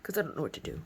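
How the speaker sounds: low, hushed mumble to yourself; softly acted loner, pitch dropping; withdrawn Hermit. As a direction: play it small and quiet, keeping out of the way. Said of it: "And the Hermit is like".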